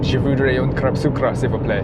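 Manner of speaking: French crêpe order in a lightly put-on Russian accent; ordering a pancake in French, but a hint of Russian accent; mock Russian accent. Ordering a crêpe in French, understated mock Russian accent. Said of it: "get a pancake with a Russian accent".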